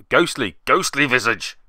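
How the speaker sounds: ghostly said with a clear long o, as in ghost; corrected pronunciation. Shown as a demonstration. Player correcting his slip, ghostly said with a clear long o. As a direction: stress the o in ghostly, ghostly visage. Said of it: "Ghostly, not ghastly".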